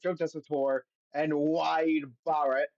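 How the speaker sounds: a hint of a bad British accent on the names; a mock British announcer reading the names. Shown as a demonstration. Host introduces the commentators in a bad British accent. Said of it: "that was a bad British accent".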